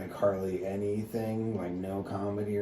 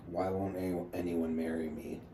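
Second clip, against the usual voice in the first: understated mock complaint, in a near-usual voice; retold sarcasm. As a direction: quote her deadpan, barely acting it. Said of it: "trying to be sarcastic".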